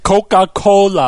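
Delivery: exaggerated American accent, stretched out; imitated mock-American accent. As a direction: mimic Italians mocking an American accent. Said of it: "American accent".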